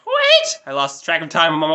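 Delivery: sudden high, loud mock shout of wait; a squeaky, hammed-up shout of alarm; retold frantic call. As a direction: imitate a friend yelling after them in a panic. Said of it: "he called us back and was like".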